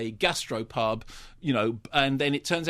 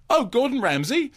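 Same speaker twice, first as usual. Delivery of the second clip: high, loud Scottish greeting, rising at the end; hammed-up Scottish surprise; Dougray Scott; 9 semitones higher, 5 dB louder than usual. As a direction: hail him in a mock Scottish accent. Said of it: "in a Scottish accent".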